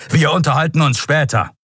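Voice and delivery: commanding, brooking no reply; thundering. A narrator's reading. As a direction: close the matter with authority. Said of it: "donnerte Telios".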